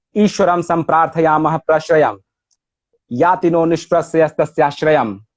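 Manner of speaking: even Sanskrit couplet, falling at each line's end; metrical recitation. Shown as a demonstration. Scholar compares the translation with Rumi's metre, measured recitation. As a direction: recite both lines to show the metre. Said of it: "وزن شعر مولانا و این ترجمه".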